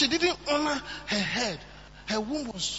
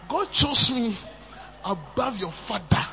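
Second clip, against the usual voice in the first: proud retort; 4 dB louder, slower than usual. Retold or imitated. David's retort.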